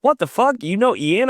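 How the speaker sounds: very high-pitched incredulous questions; retold amazement. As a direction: imitate a friend's astonished reaction. Voices Sean's amazed message.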